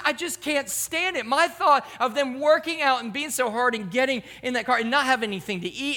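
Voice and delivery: high-pitched mock fretting; playful retold anguish; imitated distressed wife.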